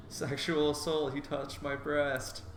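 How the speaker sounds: hammed-up horror, drawn out slowly; mock horrified. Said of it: "puts a mock horrified look".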